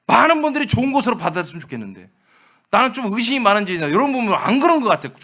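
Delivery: high, loud fervent sermon build; climbing pulpit passion, loud and high; impassioned preaching. Acted. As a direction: preach it out with rising fervor. Preacher rising to full force.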